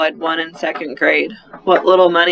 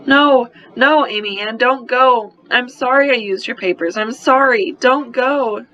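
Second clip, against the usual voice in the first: higher, pleading little sister in tears; crying child; 6 semitones higher than usual. Acted. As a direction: beg her big sister not to leave. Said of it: "she cried".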